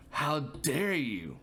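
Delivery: slow, drawn-out mock accusation; a hint of an outraged roommate; mock indignant roommate. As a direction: play the wronged roommate, slow. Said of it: "let me get a good story going".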